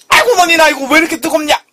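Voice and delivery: high startled complaint; shocked yelp. Real, not acted. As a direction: gasp at how hot it is. Still burning mouth.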